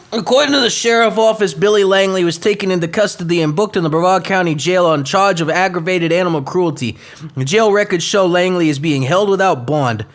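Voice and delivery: brisk news anchor read. Acted. Host resuming the crime story, anchor-style read. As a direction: read it straight like the evening news.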